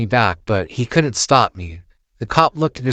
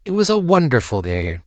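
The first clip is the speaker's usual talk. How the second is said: ominous; 4 semitones higher than usual. Acted. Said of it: "in a somewhat ominous voice".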